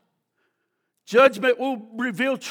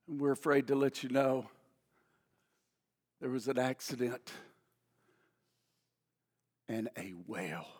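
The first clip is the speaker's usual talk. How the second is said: hushed sermon voice; 7 semitones lower, 8 dB quieter than usual. Acted. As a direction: paint each loss softly, letting it sink in. Hushed build toward grief scenes.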